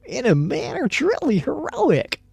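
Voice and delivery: very high, loud heroic declamation; hammed-up grand oratory at full blast; mock-solemn accent. A narrator's reading. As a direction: proclaim it like an overblown stage heroine. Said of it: "she said with a solemn accent".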